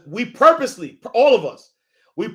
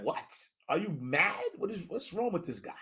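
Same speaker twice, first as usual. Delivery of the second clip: hushed God voice; 4 semitones lower, 15 dB quieter than usual. Retold or imitated. God mocks his plans.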